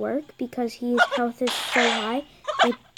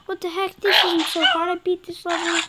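mocking commenter; 6 semitones higher, 3 dB louder than usual. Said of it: "People are like".

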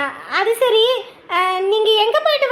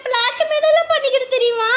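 laugh-crying despair; 3 semitones higher than usual. Acted.

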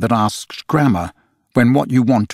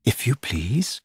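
slight primness; 7 dB quieter, slower than usual. A narrator's reading. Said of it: "with a slight primness".

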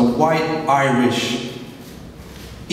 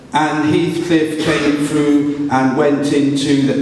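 slow, bored, flat-toned read-aloud; monotone reading; much slower than usual. Retold or imitated. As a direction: drone it like a bored pupil. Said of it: "they'd read in a monotone voice".

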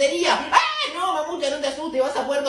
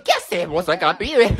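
gruff man; 8 semitones lower, slower than usual. Pretend. Store man scolding the kid, lower voice.

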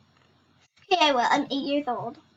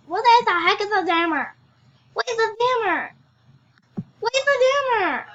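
loud question, climbing higher with each repeat; loud bafflement; 4 semitones higher, 6 dB louder, faster than usual. Real, not acted. Player baffled by a game word, loudly exasperated. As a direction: demand an answer, more exasperated each time.

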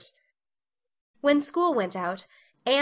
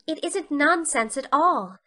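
higher, slow and solemnly reproachful; 5 semitones higher than usual. A narrator's reading. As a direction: protest with wounded dignity. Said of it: "with solemn, reproachful eyes".

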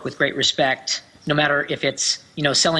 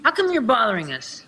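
character line read; 4 semitones higher than usual. Acted. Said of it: "another one here you want me to read".

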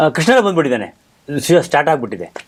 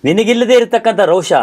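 raised, measured mythological declamation; declaiming stage Krishna; 4 semitones higher than usual. Acted. Krishna actor covering for Bhima's smoke, grand declamation. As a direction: declaim the ad-lib like a stage god.

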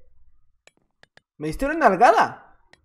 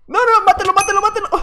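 high, loud egging on; shrill-free excited chant of kill him; excited cheering; 9 semitones higher, 4 dB louder, faster than usual. Real, not acted. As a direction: urge him on, thrilled.

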